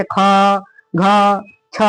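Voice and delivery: ख, घ, छ each said with a puff of breath; aspirated consonants. Shown as a demonstration. Teacher showing mahapran letters, ख, घ, छ said aspirated. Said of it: "अधिक सांस लगता है".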